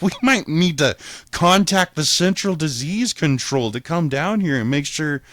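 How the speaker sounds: high, loud, worked-up tirade; mock-alarmed rant. Ranting to his lawyer about a brain-eating virus, loud and mock-alarmed. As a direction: rant like the whole jail's gone mad.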